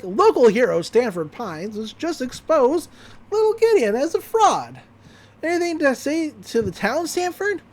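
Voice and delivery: high-pitched news anchor read; news reporter. Retold or imitated. Reporter questioning Stanford, in a news anchor voice. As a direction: ask it like a TV reporter. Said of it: "we cut over to Chandra Jimenez".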